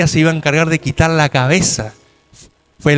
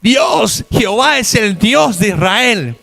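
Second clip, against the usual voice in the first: crowd shout; 4 semitones higher, slower than usual. Acted. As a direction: cry it out like the whole nation. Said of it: "todos gritaron".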